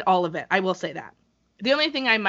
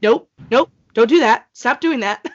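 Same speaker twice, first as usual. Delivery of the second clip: nervous protest; 3 semitones higher, 6 dB louder than usual. Retold or imitated. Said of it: "I'm like".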